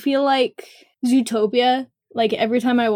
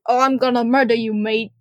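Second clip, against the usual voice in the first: bad British accent. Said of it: "he's, like, British".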